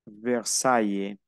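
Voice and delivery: VERSAILLES slowly as "ver-sa-i-ye"; slow pronunciation demo. Shown as a demonstration. Teacher giving another example of A I, slow pronunciation demo. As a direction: draw out VERSAILLES, sounding A then I. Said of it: "aquí pronunció A I".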